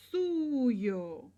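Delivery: suyo stretched long, gliding down; stress on suyo. Shown as a demonstration. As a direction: draw out suyo for emphasis. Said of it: "if you want to emphasize".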